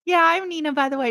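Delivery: high-pitched starstruck introduction; retold fangirl gushing; giddy fangirl. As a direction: introduce yourself like an excited fan. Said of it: "I fangirled so hard".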